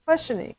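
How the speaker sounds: QUESTIONING pitched well up, like asking; questioning intonation. Shown as a demonstration. Teacher listing kinds of intonation, questioning. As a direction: say QUESTIONING on a high, querying note. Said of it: "maybe the intonation is demanding or excited".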